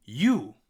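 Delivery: "You" alone, punched loud; isolated word. Shown as a demonstration. Teacher breaking the line down, loud isolated word. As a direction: pop out "You" as a single word. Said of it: "let's break it down".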